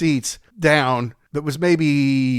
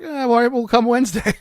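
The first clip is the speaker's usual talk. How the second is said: famous singer's voice; 9 semitones higher than usual. Retold or imitated. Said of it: "So Paul's like".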